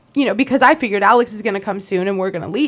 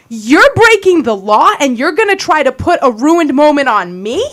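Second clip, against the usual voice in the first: slowed, louder, pitch raised in outrage; indignant retort; 2 semitones higher, 4 dB louder than usual. Retold or imitated. To Scott who screamed at her, indignant louder retort. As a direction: throw the accusation back at him.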